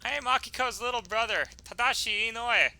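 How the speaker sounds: put-on high child voice introducing himself; high-pitched earnest schoolboy; polite little boy.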